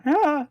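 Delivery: short mock muffled cry. Game master imitates someone being snatched, muffled cry. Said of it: "you hear that muffled".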